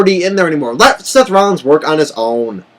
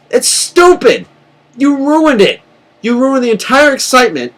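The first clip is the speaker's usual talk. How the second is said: angry outburst; 8 semitones higher than usual. Real, not acted. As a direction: blast the company for ruining it. Fan ranting about ruined ending.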